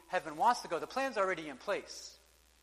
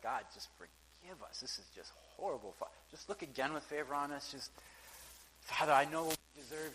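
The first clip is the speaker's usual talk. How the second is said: hushed pleading prayer; 2 semitones lower, 5 dB quieter than usual. Retold or imitated. Preacher voicing Daniel begging God for forgiveness, hushed pleading. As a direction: pray it quietly, heavy with remorse.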